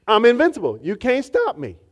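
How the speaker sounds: megalomaniac rant. Acted. Triumphant declaration.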